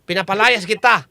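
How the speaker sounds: commanding faith healer; exorcist. Acted. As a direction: cast the demon out. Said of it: "Ganon yung ginagawa ng mga mandatawas".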